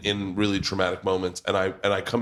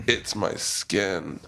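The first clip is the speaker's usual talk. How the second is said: slow grandma voice; 2 semitones lower, much slower than usual. Retold or imitated. Frail grandma's reply, quoted.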